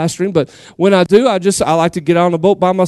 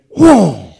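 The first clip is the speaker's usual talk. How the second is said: imitated reel pull; 2 semitones lower than usual. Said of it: "my rod and reel went".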